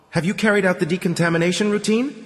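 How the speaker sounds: high, fast nasal intercom voice; pinched nasal voice through a handset. Acted. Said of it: "the blue handset asked in a nasal voice".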